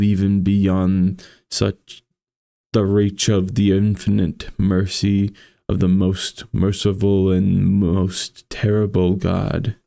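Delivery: measured, somber storytelling read; story narration. A narrator's reading. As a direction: read it like a gothic tale. Reads Poe story aloud.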